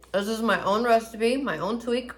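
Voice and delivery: talking while chewing; words round a bite of food; mouth full. Real, not acted. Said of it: "I should not talk with my mouth full".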